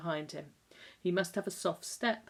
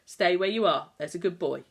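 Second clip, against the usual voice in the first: sing-song; 8 dB louder than usual. A narrator's reading. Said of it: "sing-songed the fair-haired nurse".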